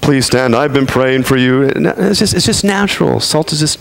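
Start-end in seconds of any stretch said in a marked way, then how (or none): 0.0-1.6 pompous churchy greeting, pitched up; hammed-up pious announcement; mock holy preacher voice. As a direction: put on a stiff holy-man act. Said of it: "Let me put on my".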